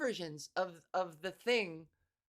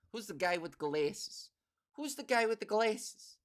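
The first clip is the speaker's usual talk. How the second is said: lightly put-on New York accent; 2 semitones lower than usual. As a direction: tell it like a rough-spoken New Yorker. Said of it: "I think that's a New York accent".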